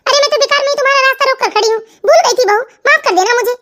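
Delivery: hammed-up fake apology, a little fast; sarcastic mock apology. Mother-in-law mocks leaving bride with fake apology. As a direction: play it as theatrical sarcasm. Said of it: "कितना drama करती है ये mummy जी भी".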